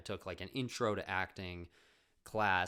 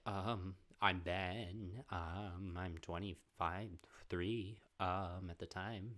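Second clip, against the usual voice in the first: nervous; much slower than usual. Retold or imitated. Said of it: "you could tell I was really nervous".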